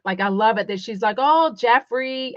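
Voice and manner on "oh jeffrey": bored, unimpressed. Retold or imitated. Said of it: "sounds like she doesn't wanna be there".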